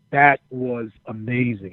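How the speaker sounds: lightly imitated boss giving slow praise; slow, deliberate retold praise, a touch of the boss; Vince. Boss praises the wrestler's promo, slow and deliberate. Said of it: "and Vince is like".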